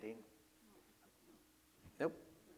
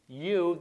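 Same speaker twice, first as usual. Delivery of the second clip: YOU loud and raised in pitch; imperative; 4 semitones higher, 9 dB louder than usual. Acted. Mary ordering the supposed gardener, commanding loud YOU. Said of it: "that's in the imperative".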